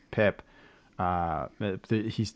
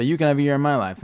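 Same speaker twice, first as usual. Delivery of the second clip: eager chorus; 6 semitones higher, 6 dB louder, much faster than usual. Retold or imitated. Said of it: "the other three say".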